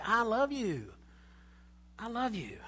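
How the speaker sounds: quiet, face-to-face tenderness; soft sincere love. Shown as a demonstration. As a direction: say it softly, looking at them. Look in your face and say.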